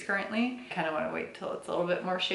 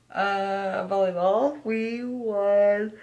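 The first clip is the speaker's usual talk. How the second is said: excited; 3 semitones higher, 7 dB louder, much slower than usual. Real, not acted. Excited volleyball win news.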